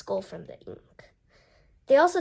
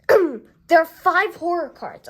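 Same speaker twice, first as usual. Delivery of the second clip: higher, louder and slow, leaning on five; amazed discovery; 6 semitones higher, 11 dB louder, slower than usual. Real, not acted. Reviewer amazed at the card count, slow and loud. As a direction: savor the surprise, stretching it out. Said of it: "Oh my gosh".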